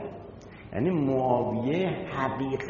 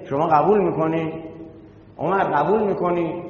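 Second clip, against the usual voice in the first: indignant challenge; 3 semitones higher, 4 dB louder than usual. Acted. Zahra challenges the crowd and Umar.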